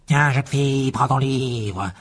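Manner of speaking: spiteful. A narrator's reading. Lucius throws Ginny her old book, spiteful. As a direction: fling the words at her with spite. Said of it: "Les yeux flamboyants de hargne".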